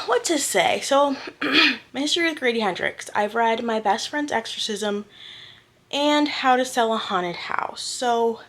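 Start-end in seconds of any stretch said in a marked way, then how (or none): 1.9-7.8 slightly breathless talking; a little winded between phrases; out of breath. Real, not acted. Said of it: "why am I out of breath?".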